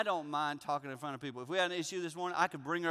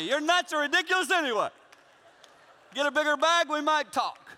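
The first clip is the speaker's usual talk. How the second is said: hammed-up high, loud rant; angry; 10 semitones higher, 8 dB louder than usual. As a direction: rant at the flight attendant in mock outrage. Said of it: "I'm angry".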